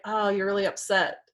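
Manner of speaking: calm acknowledgement at an everyday pitch; lightly acted empathy, not rising to it; understanding. Listener answering a yelling partner, calm and understanding. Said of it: "You can be like".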